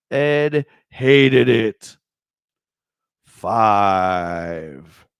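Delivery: slow, drawn-out gruff grumble; Ed the Hater voice. Acted. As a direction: growl it out slowly like a grump. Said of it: "I gotta do a different voice for Ed".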